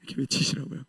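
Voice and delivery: 외치시라고요 breathed as a whisper; whispered aside. Real, not acted. Preacher whispering a playful aside to the congregation. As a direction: drop the voice to a whisper.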